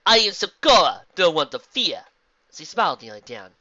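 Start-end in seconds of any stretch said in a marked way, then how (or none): 0.1-2.1 loud, higher zebra voice; friendly zebra. Acted. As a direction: introduce yourself in stately rhyme. Zebra introduces herself to filly.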